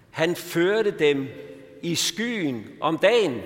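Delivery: lifting the psalm up to the congregation; scripture reading. Acted. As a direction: read the psalm with solemn weight. Reads Psalm 78 aloud.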